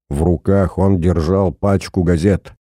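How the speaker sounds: ordinary delivery, nothing marked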